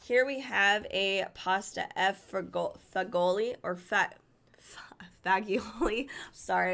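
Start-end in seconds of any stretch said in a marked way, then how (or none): 2.0-6.1 stumbling, restarted tries at FAGIOLI; unsure attempts at the Italian word "fagioli"; struggling to pronounce. Real, not acted. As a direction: break off and retry "fagioli", last try barely voiced. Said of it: "I can't even pronounce that".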